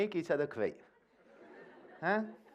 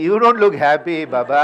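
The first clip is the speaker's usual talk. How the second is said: mock teasing; 3 semitones lower, 15 dB louder, faster than usual. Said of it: "I'm like".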